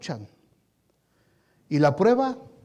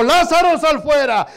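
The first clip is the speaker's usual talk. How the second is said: a hint of Jesus calling; 5 semitones higher, 7 dB louder than usual. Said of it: "Jesús desde la puerta le dijo".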